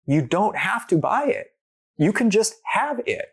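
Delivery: high, lightly voiced helper; kind explanation. Someone telling him plainly water is free, lightly voiced and high. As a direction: say it simply and gently. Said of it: "someone was just telling me".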